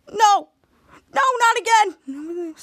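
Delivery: high, wailing protest; acted dismay. Ray learning he is at Nacho Ball, high wailed dismay. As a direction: cry out in drawn-out dread.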